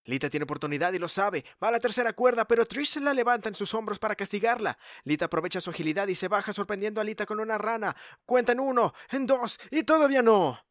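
excited play-by-play rising to near-shouting; wrestling commentator. Acted. Live play-by-play building to climax.

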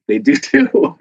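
mock childish "do too" retort; playful insistence. Arguing with doubters that bones bend, mock childish insistence. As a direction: insist like a kid in a playground spat. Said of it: "I'm like".

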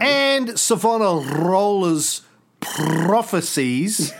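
"Savonarola's prophecies" with the R's trilled Italian-style, slow; rolled r. Shown as a demonstration. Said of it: "practicing rolling my R's for my Italian".

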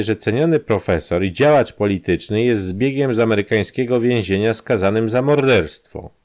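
lightly voiced blackmailer, pushing; Kramer's voice. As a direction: press the demand home.

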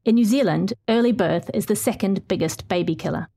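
measured, earnest feature read; story narration. Acted. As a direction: read it like a radio documentary. Reads her feature story aloud.

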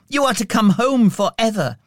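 put-on gleeful little girl. A narrator's reading. Sister brings her brother good news, gleefully. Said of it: "she laughed".

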